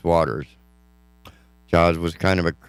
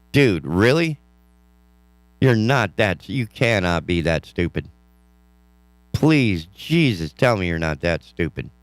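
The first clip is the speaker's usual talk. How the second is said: disbelieving, raised outburst; exasperated. Real, not acted. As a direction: scoff at something absurd. Reacting to Benchley's claim.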